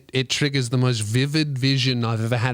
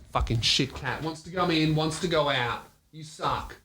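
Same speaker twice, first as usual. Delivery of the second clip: grumbled under the breath at the cat; muttering at cat; 6 dB quieter than usual. Real, not acted. Grumbling at the cat mid-show.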